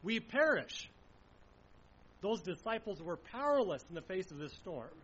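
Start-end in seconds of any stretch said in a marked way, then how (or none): 0.0-0.9 loud, slow cry for rescue; desperate cry. Acted. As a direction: beg for your lives over the storm. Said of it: "They cry out to him".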